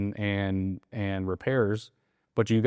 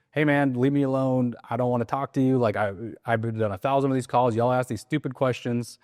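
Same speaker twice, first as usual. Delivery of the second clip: mildly irritated brush-off, pitched up; lightly acted annoyed homeowner; fed-up seller; 3 semitones higher than usual. Seller brushing off a cold caller, mildly fed up.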